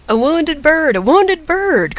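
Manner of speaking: high-pitched cry, drawn out on the repeat; women crying out in excitement; excited cry. A narrator's reading. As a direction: call out a sudden discovery. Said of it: "cried the women".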